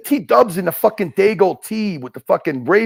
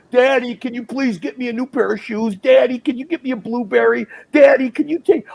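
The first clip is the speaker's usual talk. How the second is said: mock begging child; 3 semitones higher than usual.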